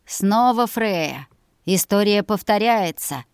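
slow menacing villain prince; drawn out, gloating menace; sinister whisper in ear. Acted. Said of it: "на ухо зловеще произнёс".

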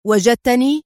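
sharp, indignant question; angry outburst. Acted. General snapping at the driver's slip, indignant. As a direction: bristle at the word. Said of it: "هاتفا في غضب".

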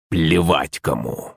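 тише и ниже, медленно, с угрозой; прорычи сквозь зубы; низкое медленное рычание. A narrator's reading. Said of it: "прорычал тот". (лысый угрожающе рычит)

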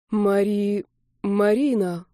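plain reading voice

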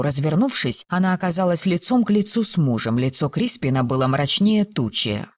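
plain reading voice

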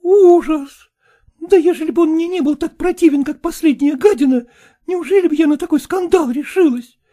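high, loud appalled cry; the daughter recoiling at her husband, high and loud; horrified outburst. A narrator's reading. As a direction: burst out in disgust at him. Daughter exclaiming.

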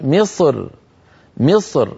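مصر ending on a thin light r. Shown as a demonstration. Teacher shows the light reading of مصر. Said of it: "رقق الراء".

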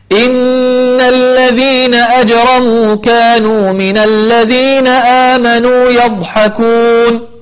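slow drawn-out Quran chanting; tajweed recitation. Shown as a demonstration. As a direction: chant the verse slowly with tajweed. Teacher recites the verse. (تلاوة مجودة بطيئة)

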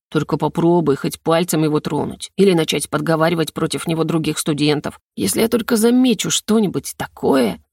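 a hint of low threat; low menace. Dean warns the rector off his student, lightly menacing. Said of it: "низким голосом грозно добавил".

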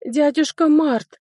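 сквозь всхлип, высоко и медленно; выдавить имя сквозь слёзы, громче обычного; всхлипывая. Acted. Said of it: "всхлипнула леди Констанс". (всхлипнула, зовя дядюшку)

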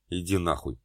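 ordinary delivery

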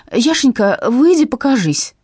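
loud, slow pleading call. A narrator's reading. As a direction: coax the hiding dog out loud. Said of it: "безуспешно взывала она".

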